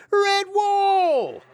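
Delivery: high, loud war cry; battle cry. Acted. Mariel throwing the oatcake at the thief, shouting. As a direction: hurl the name as a battle shout. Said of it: "yelling as she flung it".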